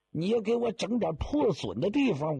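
usual speaking voice

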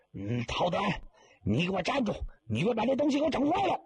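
put-on old man chasing the mourner for his scrolls, fast and high; angry chasing yell.

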